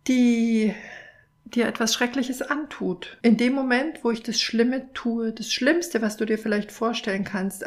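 gentle storytelling read aloud; story narration. A narrator's reading. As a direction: read it like a children's picture book. Reads picture book story aloud.

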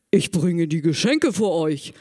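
a hint of a deep Santa. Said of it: "Mit tiefer Stimme".

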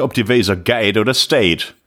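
Plattdeutsch pronunciation, slow; Low German. Shown as a demonstration. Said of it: "Plattdeutsch für".

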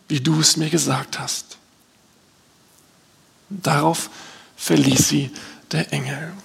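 measured, solemn Bible reading; scripture reading. Acted. Pastor reads the angel's visit to Mary, solemn reading. Reads Luke's nativity passage aloud.

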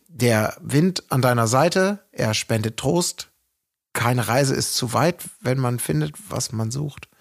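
slow, measured reciting of a verse; unhurried poetic quote; poem recitation. Acted. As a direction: recite it line by line with pauses, sinking at the end. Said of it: "Gedicht ganz aufgeschrieben".

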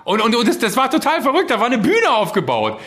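high, loud thrilled retelling; excited. Real, not acted. Excited gaming story.

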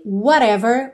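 "whatever" as "wha-rever"; flapped T. Shown as a demonstration. Teacher shows one of several forms, flapped T. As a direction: tap the t in "whatever" lightly. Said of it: "pode ser também falado de várias formas".

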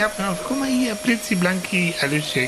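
high whiny put-upon husband; hammy stage actor. Acted. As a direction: whine it like a farce. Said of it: "theatralischen Einstieg".

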